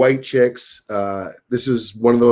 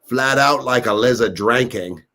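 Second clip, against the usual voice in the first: lightly put-on Aussie accent; Australian accent. Repeating an Aussie saying, mock Australian accent. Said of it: "Us Aussies, we talk and we say".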